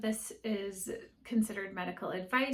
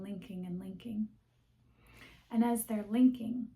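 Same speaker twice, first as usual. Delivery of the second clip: guided meditation. Acted. Host leading recovering people pleasers through a visualization, guided meditation. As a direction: guide them gently into calm, phrase by phrase.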